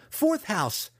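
high, loud spat protest. A narrator's reading. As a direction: spit the words out. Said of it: "Alton spat".

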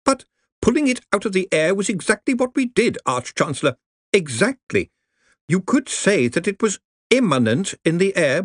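anxious junior wizard, careful; nervous young wizard. Acted. Ponder presses his point.

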